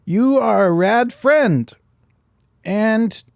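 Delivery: put-on slow, high Chinese accent. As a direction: stretch every word in a high Chinese accent. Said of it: "I'll do the Chinese accent".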